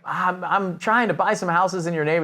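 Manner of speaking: lightly voiced confused older man; confused older caller. Older man cold-calling about buying houses, mildly confused. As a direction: imitate an unsure older man, stumbling at the start. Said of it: "older guy, sounded confused".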